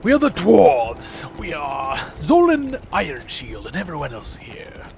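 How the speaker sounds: slow, loud, declaimed dwarf announcement; theatrical dwarf bravado; proud dwarf. Acted. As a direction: proclaim it like a dwarf hero.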